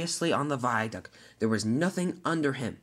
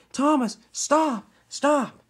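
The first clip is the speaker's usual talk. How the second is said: panicked plea; 11 semitones higher, 4 dB louder, much slower than usual. Acted. Diesel ten panics on rising track.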